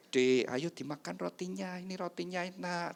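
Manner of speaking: acted tender husband, light high voice; gentle husband. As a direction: coax sweetly, as to a dear wife. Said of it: "Mulai ngomongnya halus sama istrinya".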